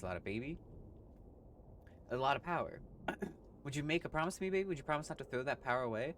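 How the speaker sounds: lightly voiced smooth hipster cat; groovy cat voice. Cat urging player to keep the watch's power, smooth. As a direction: coax like a cool jazz cat. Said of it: "Charles doesn't call me baby".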